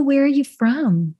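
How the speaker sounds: light Southern drawl on the question; Southern accent. Shown as a demonstration. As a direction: ask it with a country lilt. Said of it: "a little country accent on that one".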